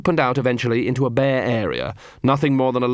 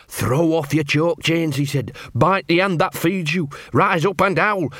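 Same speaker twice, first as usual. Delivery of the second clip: rousing quote; 5 semitones higher than usual. Retold or imitated. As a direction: rise like a mild rally cry. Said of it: "he told 'em".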